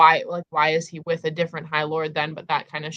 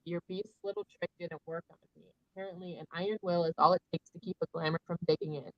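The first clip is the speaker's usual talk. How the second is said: reading Nesta's lines; faster than usual. Retold or imitated. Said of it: "she said".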